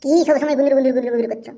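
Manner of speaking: fast, irritated demand; quick scolding burst; angry. Acted. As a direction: rattle it off crossly. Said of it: "তুমি অত রাগ করছো কেন?".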